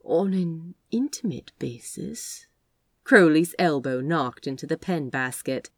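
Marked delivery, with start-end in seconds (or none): 0.0-2.5 coy. Acted. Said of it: "licked his lips coyly".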